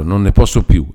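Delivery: cling to him and cry it out; exclaimed in despair. Acted. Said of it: "esclamò aggrappandosi".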